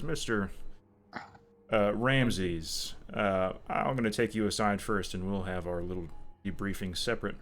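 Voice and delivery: put-on southern accent. GM voicing the Bureau agent to a player, light southern accent. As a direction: let a slight southern accent slip into the agent's voice. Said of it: "I slipped back into that southern accent".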